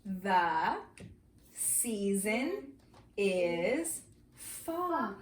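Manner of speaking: word by word with clear pauses; read-along. Shown as a demonstration. Teacher reading with the class, slow word-by-word delivery. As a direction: point to and read each word separately. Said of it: "Read it with me".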